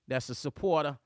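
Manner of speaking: lightly put-on New Jersey accent. Shown as a demonstration. Host greeting viewer Sonya, playful New Jersey accent. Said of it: "here's my New Jersey accent".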